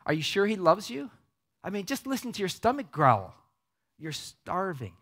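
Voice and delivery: a lightly voiced, coaxing tempter; a hint of a smooth, reasonable friend pulling you in; devil as friend. Preacher voicing the devil tempting the hungry, mildly coaxing. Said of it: "The devil comes like this caring, reasonable friend".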